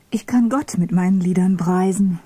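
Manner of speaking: ordinary delivery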